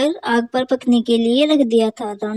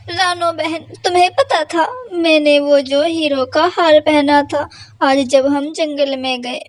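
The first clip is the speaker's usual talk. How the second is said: higher, anxious story of a lost necklace; pleading crow; 3 semitones higher than usual. Acted. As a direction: coax your friend into coming. Crow lies about necklace. (ऊँची घबराई आवाज़ में झूठी विनती)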